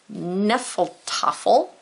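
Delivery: "Neffeltoffel" said slowly with no H sound; silent H. Shown as a demonstration. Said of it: "H is silent".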